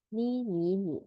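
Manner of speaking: 你 said softly three times, stepping down to third tone; tone drill. Shown as a demonstration. Teacher drilling 你 for third tone, stepping through tones. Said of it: "Third tone".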